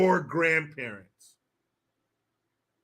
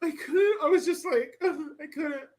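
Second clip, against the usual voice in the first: much higher, laughing, barely getting words out; laughing disbelief; 10 semitones higher than usual. Real, not acted. Streamer laughing at the fake crying, high and breathless. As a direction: laugh helplessly through it.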